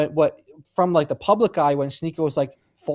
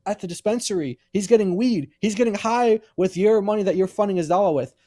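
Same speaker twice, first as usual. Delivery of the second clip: indignant retelling; 4 semitones higher than usual. Retold or imitated. Retold angry pushback.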